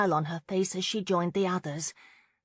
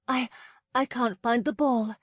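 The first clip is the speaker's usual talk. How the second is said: lying; 6 semitones higher, 4 dB louder than usual. Acted. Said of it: "she lied".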